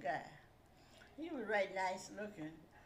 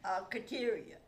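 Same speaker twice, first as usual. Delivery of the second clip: louder, pleading and eager; eager ask; 2 semitones higher, 9 dB louder, slower than usual. Retold or imitated. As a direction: ask her hopefully, with a lift. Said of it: "And I said".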